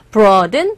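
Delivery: "broaden" as "braw-den"; correct English pronunciation. Shown as a demonstration. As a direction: open aw vowel and two syllables in "broaden". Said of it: "발음, broaden이 아니라".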